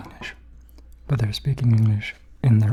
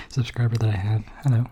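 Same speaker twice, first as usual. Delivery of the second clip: light imitation of a Welsh accent; mock Welsh accent. Shown as a demonstration. Apologising to a lone Welsh subscriber, in mock Welsh accent. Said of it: "Sorry for mocking your accent".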